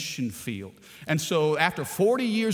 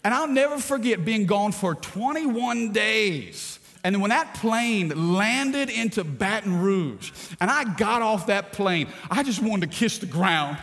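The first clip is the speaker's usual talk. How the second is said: excited; 4 semitones higher, 3 dB louder than usual. Real, not acted. Preacher builds excitement about homecoming.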